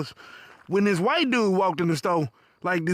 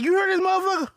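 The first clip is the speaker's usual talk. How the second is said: incredulous aside; 8 semitones higher than usual. Retold or imitated. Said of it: "looking at me like".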